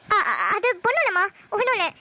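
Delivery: stammered, hasty denial; flustered blabbering. Acted. Daughter caught crying by her mother, flustered and stammering. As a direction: stumble nervously into a cover-up. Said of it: "என்னடி உளற?".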